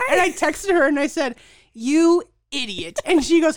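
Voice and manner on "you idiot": slow, louder "you idiot"; mock scolding. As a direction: scold the sister half-jokingly. Retold angry text to sister.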